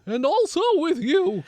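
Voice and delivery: very high, loud hungry demon; creepy demonic voice. Acted. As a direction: screech it like a starving demon. Furby replies to blessing.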